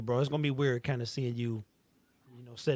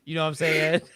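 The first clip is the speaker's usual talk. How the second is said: with a sore jaw. Retold or imitated. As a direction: mouth barely opening, in a rapper's style. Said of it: "God can't open my mouth all the way".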